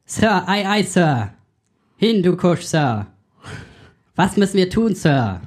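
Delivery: lightly voiced eager subordinate; hammed-up yes-sir soldier; clipped nasal officer. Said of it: "machen wir kurz einen Bundeswehr-Podcast nach".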